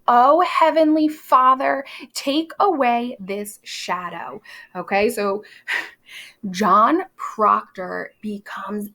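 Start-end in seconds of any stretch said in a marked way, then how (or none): 0.1-4.4 theatrical plea to heaven, only half yelled; mock yelled prayer. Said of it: "she yells out in the courtroom".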